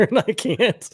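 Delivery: breaking into laughter mid-sentence; losing it, can't hold back; laughing. Real, not acted. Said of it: "trying to keep it together".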